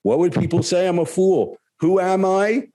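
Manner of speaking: lightly voiced guru reassuring a student; Gurudev. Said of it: "he says".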